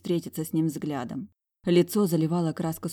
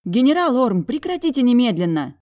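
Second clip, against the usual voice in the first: higher, louder command to stop; scolding shout; 7 semitones higher, 8 dB louder than usual. A narrator's reading. Heroine ordering the general to stop kissing her, loud. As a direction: order him to stop at once.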